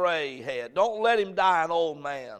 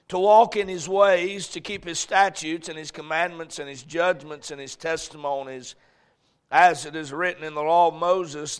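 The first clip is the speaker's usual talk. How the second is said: solemn Bible reading; scripture reading; 3 dB louder than usual. Acted. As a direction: read the verses with weight. Reads scripture aloud.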